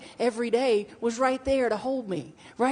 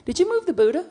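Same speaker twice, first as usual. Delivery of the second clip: higher, louder puzzled question; quoting herself asking her wife, a little louder; 9 semitones higher, 5 dB louder than usual. Retold or imitated. Speaker to wife, a higher, louder puzzled question. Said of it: "I'm like".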